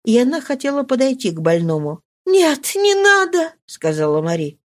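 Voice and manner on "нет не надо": slow refusal. Acted. Mari refuses in despair.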